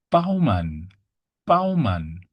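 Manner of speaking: "Baumann" as BOW-mahn, firm first B; German B sound. Shown as a demonstration. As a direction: model "Baumann" for learners, opening on a clear B. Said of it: "for the B sound".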